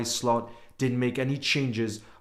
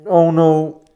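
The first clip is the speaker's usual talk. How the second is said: loud, high groan of dismay; anguished no; 7 semitones higher, 8 dB louder than usual. Real, not acted. Fan hearing the injury is serious, loud high dismay. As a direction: let it out, gutted and loud.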